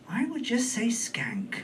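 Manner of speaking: breathy unvoiced whisper, laughing; conspiratorial whispered jab; whispered aside. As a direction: slip it in as a sly whisper. Whispered aside about celebrity.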